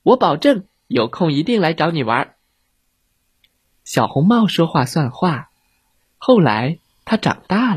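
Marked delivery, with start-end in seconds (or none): 0.0-2.4 high, lightly voiced child; promising little girl. Red Riding Hood promising to visit, high child voice.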